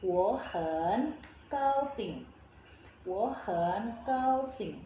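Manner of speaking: slow "Wo hen gao xing", "Wo" rising, "hen" dipping; tone change demo. Shown as a demonstration. Teacher models for learners, slow "Wo hen gao xing" with rising "Wo". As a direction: draw out each syllable, "Wo" in second tone before third-tone "hen". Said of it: "berubah jadi nada kedua".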